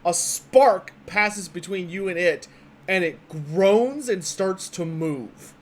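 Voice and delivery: slow, suspenseful scene setting; game master narration. Acted. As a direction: draw the players in slowly. GM sets the scene.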